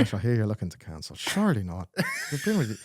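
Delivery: put-on phone agent slipping into African accent; African-sounding accent. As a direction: coax the customer in a wobbly African accent. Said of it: "why are you going all African on me?".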